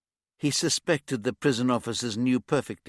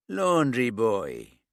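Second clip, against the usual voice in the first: slow, scornful sneer of a prison boss; disdainful; 5 dB louder, much slower than usual. Acted. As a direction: drawl it out with contempt. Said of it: "his voice loaded with disdain".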